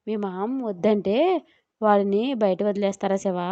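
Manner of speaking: a touch of helpless worry; meek, worried. Acted. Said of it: "బేలగా అడిగింది చైత్ర". (బేలగా, భయంగా అడగడం)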